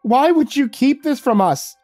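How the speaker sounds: high, loud and slow, furious question; angry. Acted. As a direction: demand it, each word hurt. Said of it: "Natalie said angrily".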